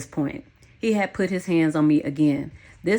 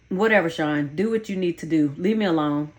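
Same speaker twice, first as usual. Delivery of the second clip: done, fed up. Acted. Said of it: "It could be heard in my voice".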